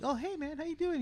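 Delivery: mock high-pitched friendly hello; Pete Davidson voice. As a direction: lightly mimic a goofy roommate. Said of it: "he's all like".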